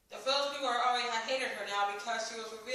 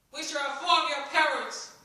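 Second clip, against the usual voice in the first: loud stern scold; 5 semitones higher, 7 dB louder than usual. A narrator's reading. Village man scolds Ellie, stern and loud. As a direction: warn her sternly, raised voice. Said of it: "the man scolded".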